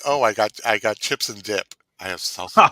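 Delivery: mock plain host. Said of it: "better than saying".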